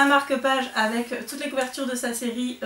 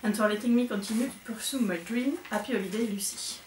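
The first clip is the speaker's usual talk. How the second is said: English letter read with a heavy French accent; strong French accent in English. Real, not acted. Reading Lucy's thank-you note aloud, strong French accent in English. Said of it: "vous avez vu mon super accent".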